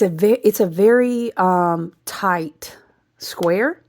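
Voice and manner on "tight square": whisper. Real, not acted. Whispered astrology term.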